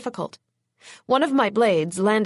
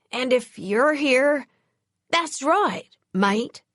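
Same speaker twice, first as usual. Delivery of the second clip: put-on slow, menacing English accent; a cool English threat, unhurried; English accent, lethal; 4 semitones higher, slower than usual. A narrator's reading. English vampire threatening the killer, slow English menace. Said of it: "The accent was English, and the tone was lethal".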